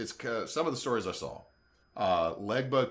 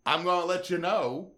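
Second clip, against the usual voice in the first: cold dismissive god; 3 semitones higher, 4 dB louder than usual. Retold or imitated. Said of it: "You go".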